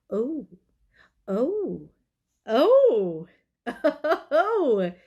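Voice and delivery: high squeaky filtered voice; sped-up cartoon chipmunk sound; helium voice. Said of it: "There's a unicorn icon. I'm gonna push it".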